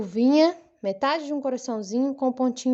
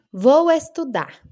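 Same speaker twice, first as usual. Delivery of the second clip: slow, measured example sentence; 3 semitones higher, 6 dB louder, slower than usual. Shown as a demonstration. Teacher showing children a complete sentence, slowly. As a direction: say it slowly as a model. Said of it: "se eu falar com vocês".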